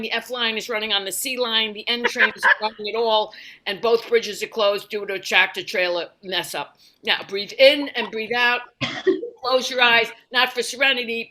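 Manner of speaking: a hint of a brash New Yorker guiding breaths; New York meditation guide. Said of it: "I need a New York guided meditation".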